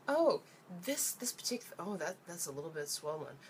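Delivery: half-hearted impression of a doubtful doctor; mock doctor. Mocking the Japanese check-up doctors in a light fussy doctor voice.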